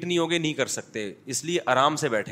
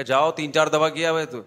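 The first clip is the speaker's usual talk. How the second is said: retold anger; 2 semitones higher, 5 dB louder than usual. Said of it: "مجھے غصہ آیا".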